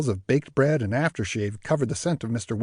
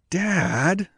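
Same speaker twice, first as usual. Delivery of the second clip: chastising through clenched teeth; 6 semitones higher than usual. A narrator's reading. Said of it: "chastised through clenched teeth".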